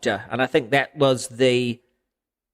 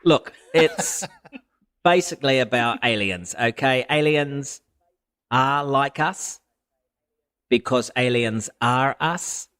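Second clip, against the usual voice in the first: sneering. Acted. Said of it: "kinda try to sneer in your voice".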